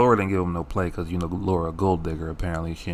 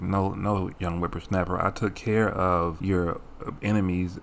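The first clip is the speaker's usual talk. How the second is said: put-on old-fashioned Carl. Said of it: "He was like".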